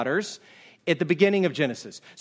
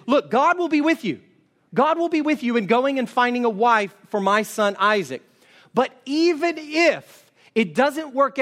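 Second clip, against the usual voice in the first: voicing Abraham; 3 semitones higher than usual. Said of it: "what Abraham is saying is".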